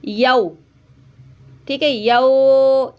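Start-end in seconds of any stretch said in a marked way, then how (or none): 1.7-2.9 यौ cut short without stretching; clipped yau. Shown as a demonstration. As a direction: end यौ cleanly without lengthening. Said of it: "इसकी आवाज़ को हमें नहीं बढ़ाना". (यौ को बिना खींचे छोटा बोलना)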